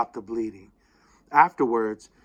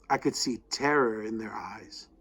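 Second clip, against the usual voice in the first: whispering; 3 semitones lower, 7 dB quieter than usual. A narrator's reading. Narration at a tense moment.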